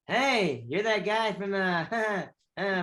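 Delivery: high, halting fan babble with nervous laughs; awkward starstruck. Retold or imitated. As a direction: act tongue-tied in front of your idol. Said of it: "I didn't know what to say to him".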